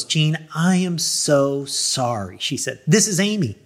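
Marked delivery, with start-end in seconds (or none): 0.0-2.4 slow, mildly apologetic; lightly voiced sympathetic woman; pleasant female voice. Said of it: "the pleasant female voice". 2.9-3.6 higher-pitched, lightly voiced pleasant woman; retold pleasant phone voice; a singer. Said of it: "the pleasant female voice".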